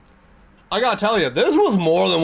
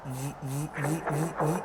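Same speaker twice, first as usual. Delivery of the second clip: soft repeated "v" buzzes; imitated stuttering v sound; 9 dB quieter than usual. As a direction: quietly pulse out a string of v's.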